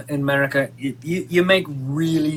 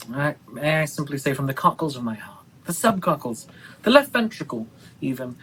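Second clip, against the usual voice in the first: soft, low, tender declaration; quiet, reverent gushing; hushed heartfelt tribute; 5 semitones lower, 6 dB quieter than usual. Acted. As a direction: confess your admiration softly, from the heart. Mock-heartfelt tribute to the actress.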